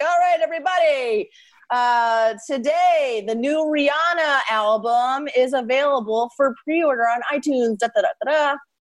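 easygoing, slow radio announcer patter. Retelling what a radio announcer said one night: imitating a radio announcer. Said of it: "I heard this radio announcer".

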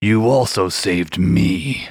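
deep, low, rumbling, growling voice. A voice suddenly speaks right behind Iris and Tuchin, deep growly voice. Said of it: "a deep growly voice suddenly speak".

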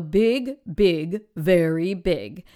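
low, slow, deep big voice. Demonstrating a repeating pattern for the big characters, using a low voice. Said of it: "I use my low voice for big".

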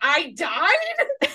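exasperated, annoyed yell, stretching the word "died". Retelling an actor reading his own character's death on a train; retelling an annoyed yell. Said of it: "he yelled out loud".

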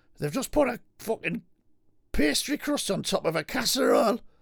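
agitated, worked-up rant, high and rough. Arguing on a show about what counts as a pie, worked up and ranting. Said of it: "you need to calm down".

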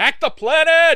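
lung-busting, very high, loud, shrill yell. Asked by another speaker to yell the catchphrase: yelling as loud as possible. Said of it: "You have to yell it, though, as loud as you can".

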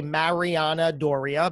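Americanized pronunciation of the name. Showing how an american would say the guest's name: americanized pronunciation of the name. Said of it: "with my New Jersey accent, an American like me might say".

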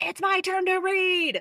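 put-on very high, drawn-out, all-out yell from the lungs. Recalling fourth grade when others kept taking their reading turn, retelling a shout. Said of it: "I just shouted at the top of my lungs".

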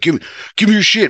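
very high, fast, stuttering and stammering. Retelling a robber's nervous demand: imitating a stuttering threat.

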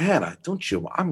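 put-on creepy whisper, old man. Imitating a creepy whisper close into the mic, as an old guy. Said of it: "Oh, whisper. Yeah, I'm this old guy".

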